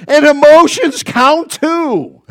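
put-on a laughing, half-tearful old woman, loud and slow; mock a weepy wife pleading her point. Preacher imitates an old wife arguing with her husband, tearful and laughing. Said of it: "through her tears".

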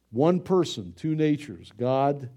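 normal talking voice

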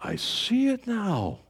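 hushed, moved thanks to the Lord; tearful awe. Retold or imitated. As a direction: let it catch in the throat with wonder. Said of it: "you finally go like".

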